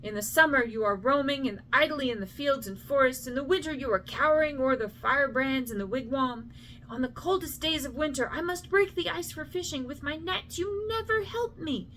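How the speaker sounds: a mother berating her idle son, climbing to a shrill pitch; scolding mother. Acted.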